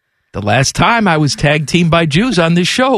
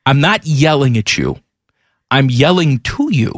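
"to" leaned on against "at"; stress on TO; 3 semitones lower than usual. Retold or imitated. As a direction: set "to" apart with extra weight. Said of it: "That's a different thing".

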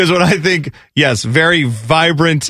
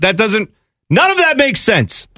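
higher-pitched mock bafflement; exasperated reply; 5 semitones higher than usual. Listener answering Chicago locals' odd vowels, exasperated. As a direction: protest as if logic has failed. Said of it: "And you're like".

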